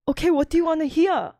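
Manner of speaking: mock Asian accent on request. Friends asked to hear it, hammed-up Asian accent. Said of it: "could I hear your accent?".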